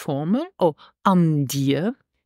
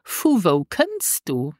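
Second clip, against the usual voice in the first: slow model phrase; slower than usual. Shown as a demonstration. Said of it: "is in Luxembourgish".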